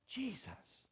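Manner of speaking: hushed, breath-only utterance; awestruck whisper. Acted. Saul takes in who is speaking, whispering in shock. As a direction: whisper the name in disbelief.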